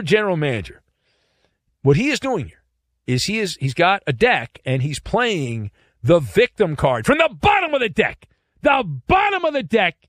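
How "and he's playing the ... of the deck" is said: rising to a shout. Real, not acted. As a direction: hammer the bottom of the deck. Ranting with emphasis.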